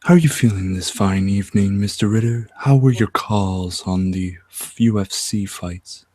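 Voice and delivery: lightly voiced public radio host. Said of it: "talk like the public radio people".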